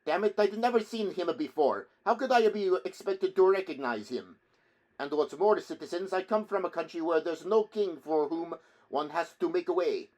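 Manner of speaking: put-on high, loud, indignant Italian accent; defiant Italian challenge. A narrator's reading. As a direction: fling it back hotly with an Italian accent. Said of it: "uttered the name like a challenge".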